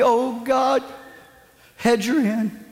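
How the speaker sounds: a hint of an anxious praying deacon; half-joking church prayer; mock prayer. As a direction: plead it like a nervous prayer.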